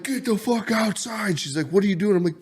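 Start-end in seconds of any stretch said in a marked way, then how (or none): 0.0-1.4 high, urgent mock panic; hammed-up terror, hurrying her out; panicked. Calling Jaden outside to see the lights, in high mock panic. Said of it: "straight panic mode". 1.7-2.2 partner's voice. Retold or imitated. Voicing his partner's reply.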